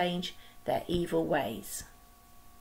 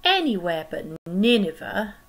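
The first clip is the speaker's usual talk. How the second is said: groaning; 5 dB louder than usual. Acted. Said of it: "he groaned".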